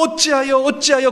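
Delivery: high, loud repeated why; acted crowd outcry; protesting cry. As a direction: wail the question up high.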